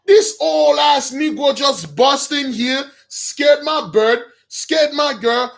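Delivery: whiny outrage at being disturbed; exasperated king. Retold or imitated. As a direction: play the annoyed king interrupted at his party. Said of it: "Ishbosheth was like".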